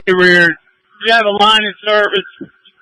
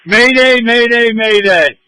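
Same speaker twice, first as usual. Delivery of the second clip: raised, urgent distress call; urgent mayday call; 4 semitones higher, slower than usual. Real, not acted. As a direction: call the mayday over the radio. Collapse just reported on radio.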